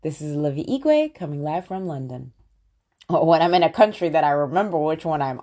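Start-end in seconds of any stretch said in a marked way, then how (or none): 0.0-2.3 live intro. Shown as a demonstration. Host signing on to her live from London. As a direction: announce yourself going live. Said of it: "But I always say".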